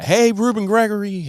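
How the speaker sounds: excited call to a passing star. Retold or imitated. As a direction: shout his name to catch him. Calling out to a celebrity.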